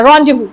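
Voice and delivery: rendezvous as RON-day-voo, silent z and s; teacher giving rendezvous as RON-day-voo, no z; correct rendezvous. Shown as a demonstration. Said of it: "वस की आवाज नहीं आएगी".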